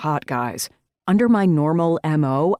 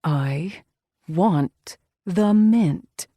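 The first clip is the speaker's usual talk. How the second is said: slow, drawn-out growl on mint; much slower than usual. A narrator's reading. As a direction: growl the words slowly, leaning on mint. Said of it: "doesn't stop me from growling".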